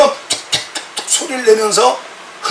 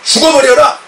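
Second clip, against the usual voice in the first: angry shout; 3 semitones higher, 4 dB louder than usual. Retold or imitated. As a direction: shout it in real rage. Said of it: "제가 막 화가 나가지고". (분노의 외침)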